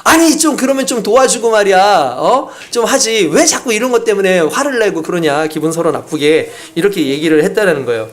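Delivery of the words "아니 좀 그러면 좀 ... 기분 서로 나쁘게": annoyed wife. Retold or imitated. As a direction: snap back at the husband. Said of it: "화를 내면서". (짜증 내며 대드는 아내)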